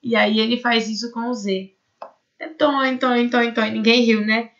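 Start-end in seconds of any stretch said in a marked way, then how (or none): 2.4-3.6 drum joke. Pretend. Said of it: "Ah, mas era pra rir".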